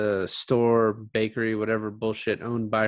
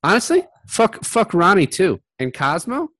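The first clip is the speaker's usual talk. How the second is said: louder, higher comic rant; loud mock rant; 7 semitones higher, 9 dB louder than usual. Real, not acted. Friend cursing movie characters, loud comic rant. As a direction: shout it out, hamming it up.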